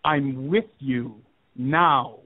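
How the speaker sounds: slow, drawn-out imitation of a menacing voice; lightly voiced demon, each word stretched; malevolent caller. Demonic caller tells the man he is there, lightly voiced menace. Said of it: "this malevolent voice".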